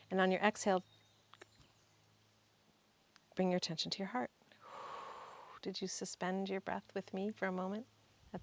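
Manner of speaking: measured, calm breathwork guide; guided breathing meditation. Real, not acted. Guide leading listeners to inhale and exhale together, guided meditation. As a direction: lead the group gently through each breath, leaving long pauses.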